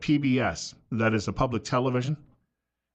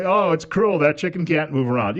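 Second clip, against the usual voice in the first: mock pity; 4 semitones higher, 5 dB louder than usual. Mocking activists' pity.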